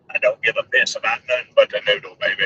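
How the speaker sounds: hint of football fan hype, for tornadoes; lightly voiced Bama fan. Vlogger making a tornado version of the catchphrase, Bama fan voice. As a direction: parody the Bama fan's catchphrase. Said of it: "come up with one for tornadoes".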